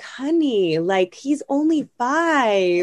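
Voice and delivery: angel on shoulder. Retold or imitated. Inner angel calming mom about her son, lightly soothing. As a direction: coax her gently, like a kind angel. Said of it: "the angel was like".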